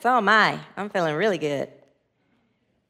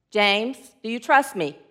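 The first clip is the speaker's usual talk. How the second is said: lightly voiced God, lower and calm; booming voice; 5 semitones lower, 4 dB quieter than usual. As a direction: ask gently from above. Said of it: "It's a booming voice".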